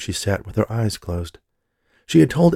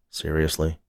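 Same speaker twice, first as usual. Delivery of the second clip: low, hushed aside; whispering; 3 semitones lower, 5 dB quieter than usual. Acted. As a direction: mutter it under your breath. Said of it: "he whispered to Jennifer".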